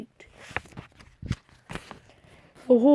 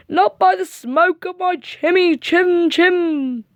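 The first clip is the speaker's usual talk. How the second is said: scared refusal; 7 semitones higher, slower than usual. Acted.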